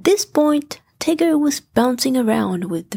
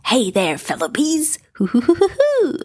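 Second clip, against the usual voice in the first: Tigger shouting; 3 semitones higher than usual. Acted. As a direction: call out wildly to distract the bees. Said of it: "Tigger shouted".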